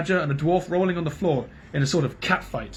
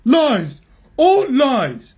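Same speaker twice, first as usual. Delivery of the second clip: high, loud outraged cry; shouted denial; 11 semitones higher, 10 dB louder, much slower than usual. A narrator's reading.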